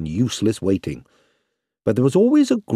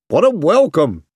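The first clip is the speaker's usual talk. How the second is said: laughing; 6 semitones higher, 4 dB louder than usual. A narrator's reading. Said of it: "laughed a young soldier".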